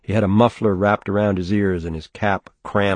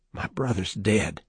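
softer, hoarse, difficult whisper; dry whisper; 7 dB quieter than usual. A narrator's reading. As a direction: force it out of a tight throat. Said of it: "in a dry, difficult whisper".

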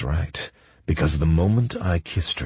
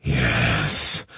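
moaned yes; 5 semitones lower than usual. A narrator's reading. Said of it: "I moaned out in deep pleasure".

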